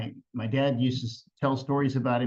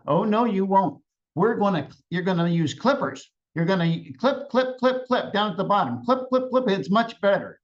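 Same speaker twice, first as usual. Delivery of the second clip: insistent quarrel; 5 semitones higher than usual. Retold or imitated. Grandparents quarrel on the bridge.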